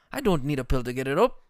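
indignant retort. Retold or imitated. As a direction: protest loudly, building to a laughing punchline. Acting indignant coworker's boast.

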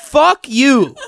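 emphatic mock curse with a laugh; retold exasperation. Retelling his reply to friend's popped button, mock outrage. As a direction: swear at your buddy in comic disgust. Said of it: "I go".

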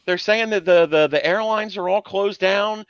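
lightly voiced Yenta mom; a hint of a New York Jewish mother. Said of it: "sound like a Yenta".

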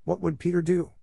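high, urgent cry in chorus; cried together. A narrator's reading. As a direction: call it out all at once. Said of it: "they cried simultaneously".

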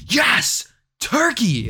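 high, eager yelp of joy; excited cheer. Retold or imitated. Telling his partner what Thanksgiving does for him, high cheer. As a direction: cheer for turkey like a kid. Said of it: "I get like".

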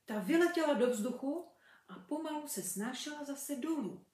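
put-on lively storybook reading for children; story narration. A narrator's reading. Mother reading a fairy tale to kids, lively. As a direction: read it like a bedtime fairy tale.

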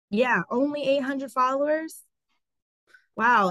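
mocking sarcasm. Retelling the woman's put-down, mock scornful. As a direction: repeat her put-down with a sneer. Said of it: "And she was like".

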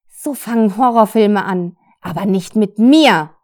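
fierce yell of resistance; defiant shout. Acted. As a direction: refuse to be a horror film victim. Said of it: "schrie sie".

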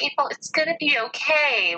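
high, gentle imitation of comforting; retold kindly reassurance; sweet reassurance. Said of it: "she was so sweet".

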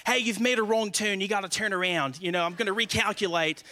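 lightly imitated Australian navigation voice; mock Australian voice assistant; Australian Siri. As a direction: put on a chipper Australian accent for the satnav. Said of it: "Siri in an Australian voice".

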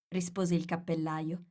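ordinary delivery, nothing marked

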